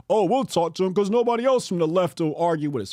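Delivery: fast mock voice; mocking quote. Mocking the right's eager excuse, fast and sneering. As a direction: rattle off their excuse mockingly. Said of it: "and here y'all come".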